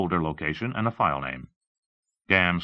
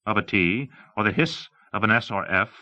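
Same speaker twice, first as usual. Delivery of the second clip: higher-pitched, emphatic presenter; lightly voiced demonstrator; 4 semitones higher, 3 dB louder than usual. Demonstrating dictation software to an audience, lightly voiced presenter.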